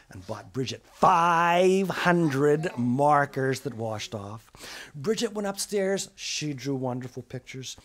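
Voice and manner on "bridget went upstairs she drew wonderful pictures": ordinary delivery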